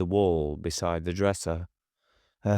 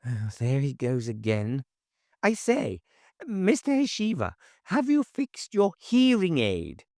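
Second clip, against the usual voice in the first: high calling busybody; 8 semitones higher than usual. A narrator's reading. Neighbour calling after Hoshiva as he vanishes, high and prim. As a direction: raise a high voice after him.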